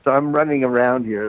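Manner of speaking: winded, breathing hard between words; out of breath from walking all over. Real, not acted. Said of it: "That's why I'm out of breath".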